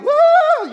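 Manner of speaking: high, loud mock wail; sustained high whoop of alarm; loud cried-out "woo". Woman sees Samuel and cries out, high mock wail. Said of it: "she cried out".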